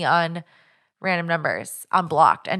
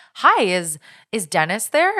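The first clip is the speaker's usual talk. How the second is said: nice, polite, pleasant sing-song voice; 3 semitones higher than usual. Retelling random phone calls from a woman, imitating a pleasant caller. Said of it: "it was like a very pleasant, nice person".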